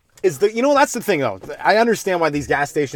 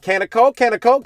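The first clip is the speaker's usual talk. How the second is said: asking; 9 semitones higher, 5 dB louder than usual. Retold or imitated. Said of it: "I'm like".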